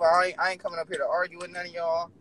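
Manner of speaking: measured, low-key delivery; saying it smooth. Real, not acted. Caller telling the group he won't argue, smooth. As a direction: keep it smooth and composed. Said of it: "I'ma say this smooth".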